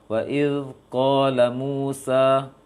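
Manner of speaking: wa il qala Musa, l flowing, slow; Arabic recitation demo. Shown as a demonstration. Tajwid teacher demonstrating flowing letters, slow. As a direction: stretch "wa il qala Musa" with the air running. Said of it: "atau il qala Musa".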